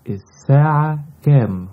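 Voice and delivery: الساعة كام asked high and loud, falling on كام; lively question. Shown as a demonstration. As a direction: ask الساعة كام brightly, dropping on كام. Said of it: "What is the time?".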